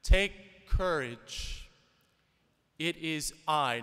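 loud, slow and commanding across the storm; calling out. Retold or imitated. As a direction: call to the frightened men in the boat. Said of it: "yells out to them".

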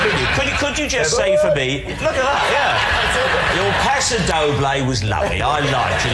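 mock Len Goodman. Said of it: "I'm doing Len Goodman".

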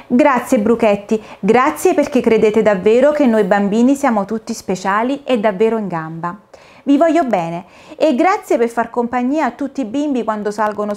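put-on a touch of a grateful, happy girl; happily surprised. Dorina thanks the caterpillars, happily surprised. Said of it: "felicemente sorpresa".

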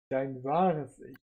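sehr langsam und tief; genüsslich bedrohlich dehnen; langsame Drohung. Acted. Adam flüstert bedrohlich. (langsame, drohende Stimme)

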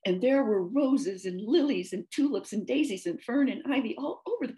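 chatty, mildly affronted tale-telling; a hint of a talkative character voice; lightly voiced storybook cow. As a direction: tell your odd story with lilting emphasis. Cow tells her story.

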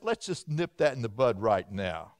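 lightly voiced God, low and matter-of-fact; low-pitched divine ruling; God's firm decree. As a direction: drop the pitch for a quietly decisive God. God quoted stopping an idea early.

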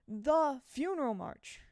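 loud, high, slow stress on "The"; emphatic THE. A narrator's reading. Boy naming the only tune to his friend, emphatic "The". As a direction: draw out "The" as the one and only. Boy hammers home the obvious answer.

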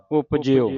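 ਉਪਜਿਓ with a y-glide after j, "upjio"; model pronunciation. Shown as a demonstration. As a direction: demonstrate ਉਪਜਿਓ carefully as "up-jyo". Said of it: "ਇਸ ਤਰ੍ਹਾਂ ਪੜ੍ਹਨਾ, ਜੱਜੇ ਦੇ ਪੈਰ ਵਿੱਚ ਜਈਆ".

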